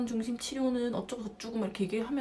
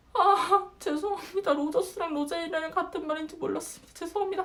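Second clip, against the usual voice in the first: flustered, bewildered apology; 6 semitones higher than usual. Retold or imitated. Student learning from professors the terms match, flustered. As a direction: imitate a thrown student apologizing in a high voice. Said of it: "어리둥절, 동공지진 말해서".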